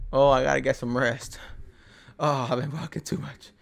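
lightly voiced whiny hiker with a sigh; a hint of a moaning quitter; mock whiny complainer. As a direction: poke fun at the tired complainer, sighing.

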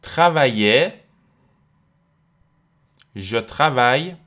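slow, carefully articulated French drill; teacher's slow conjugation chant with pauses; repeat-after-me drill. Shown as a demonstration. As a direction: model each verb form slowly for students to repeat. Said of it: "بعد من تکرار بکنید".

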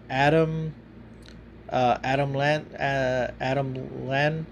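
drowsy, fumbling the name; sleepy stumbling speech; half asleep. Real, not acted. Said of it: "sorry, I'm fucking half asleep".

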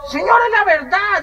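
high, drawn-out plea of honesty; mock earnest protest. Painter defending himself to the mother, high mock protest. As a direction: insist loudly that you are honest.

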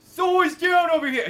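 high, loud whiny thug call; whiny henchman call. Retold or imitated. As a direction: call it out like a nervous goon. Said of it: "I do love the grunt dialogue".

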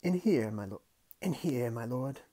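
put-on re-done as an old porter; lightly voiced old servant; old man voice. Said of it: "it's an old man".

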